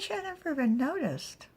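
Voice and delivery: exclaimed. Acted. Exclaimed quote, high and loud.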